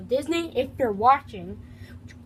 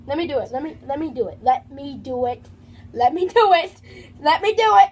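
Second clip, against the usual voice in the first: building from plain to loud demand; insistent; 6 dB louder than usual. Real, not acted. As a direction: insist louder and louder. Insisting to get a turn.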